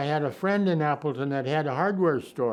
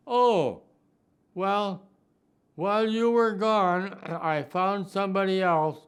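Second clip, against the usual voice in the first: a lightly voiced, higher Myra; fiancée handing back the ring, lightly voiced higher; Myra breaking it off; 4 semitones higher than usual. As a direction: give a hint of the woman returning the ring.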